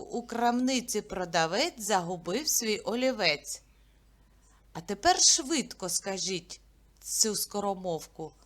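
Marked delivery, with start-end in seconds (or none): 0.0-3.6 tongue twister repeat. Shown as a demonstration. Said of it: "Ще раз повторюйте за мною".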